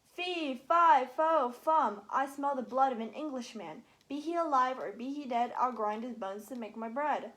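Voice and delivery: loud bellowed giant rhyme, peaking early; booming giant, loud; giant bellowing. Acted. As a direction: sniff then bellow it out. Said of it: "The giant sniffed and bellowed".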